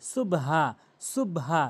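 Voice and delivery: সুবহা with b run straight into h; mispronounced সুবহা. Shown as a demonstration. Teacher mimicking the common error, closed সুবহা. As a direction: say সুবহা closed on the b, no vowel between. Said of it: "ভুল বলি".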